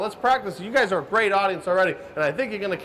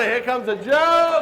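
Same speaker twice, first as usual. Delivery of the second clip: slow cue; 2 semitones higher, slower than usual. Shown as a demonstration. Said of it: "You can do better".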